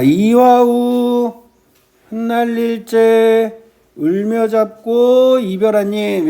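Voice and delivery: slow, drawn-out foot-by-foot recital; measured verse reading. Shown as a demonstration. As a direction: hold each phrase ending before the next. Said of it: "요렇게 읽을 거란 말이에요".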